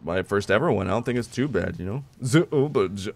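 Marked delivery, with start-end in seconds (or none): 2.2-3.1 stereotypical German accent, cut off. Shown as a demonstration. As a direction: start a mock German accent. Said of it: "it's like the stereotypical one".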